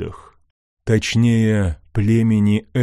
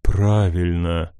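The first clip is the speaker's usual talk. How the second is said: calm; 2 semitones lower than usual. Acted. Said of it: "спокойно ответил бог тьмы".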